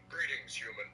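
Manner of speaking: monotone robotic voice; flat, overly formal robot speech. Shown as a demonstration. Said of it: "In a monotone, robotic voice with an exaggerated accent and overly formal speech".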